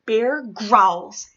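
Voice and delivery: loud, rumbling snarling read; growly bear narration. A narrator's reading. Narrator growling loud as the bear wakes up.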